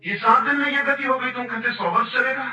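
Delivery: furious emperor. Retold or imitated. Emperor berating the seller over the broken fan. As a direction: throw the broken fan back at him.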